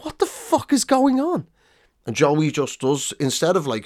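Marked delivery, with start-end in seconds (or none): 0.0-1.5 high-pitched mock bewilderment; baffled press reaction. Press corps hearing the accent, mock bafflement. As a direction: imitate a room of stunned reporters. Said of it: "the entire press corps is like".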